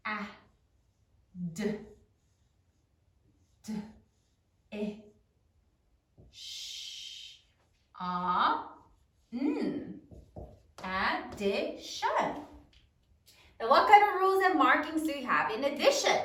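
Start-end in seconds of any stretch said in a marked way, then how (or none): 0.1-10.0 "A, d, d, e, sh, a, n" one sound at a time, long pauses; sounding out slowly. Shown as a demonstration. Teacher dictates sounds as pupils write, slowly spaced out. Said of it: "say it as you write it". 10.8-12.1 "Addition" slowly in separate syllables, rising at the end; broken into syllables. Shown as a demonstration. Teacher finishes the written word, "Addition" in slow syllables. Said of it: "say it as you write it".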